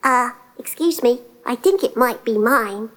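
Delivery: timidly polite tiny ant; chirping little ant. Acted. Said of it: "the little ant chirped in".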